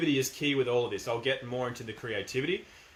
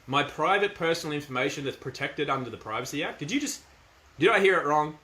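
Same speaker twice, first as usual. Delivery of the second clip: firm mock disbelief; 2 semitones higher than usual. Shown as a demonstration. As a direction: act stunned but stay firm. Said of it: "definitely being firm".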